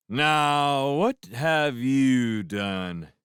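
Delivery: very slow, loud, drawn-out dismay; mock shock. A narrator's reading. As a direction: gasp in hammy horror. Lewis mock-shocked at Karen.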